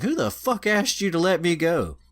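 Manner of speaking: put-on a high-pitched angry girl shouting; raccoon girl voice. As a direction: squeak it out, offended and high. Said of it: "she's like".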